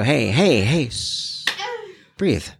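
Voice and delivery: calming breath coaching. Retold or imitated. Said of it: "like that".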